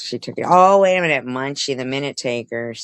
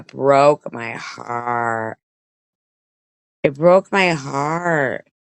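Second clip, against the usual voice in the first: saddened; much slower than usual. Real, not acted. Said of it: "It was sad".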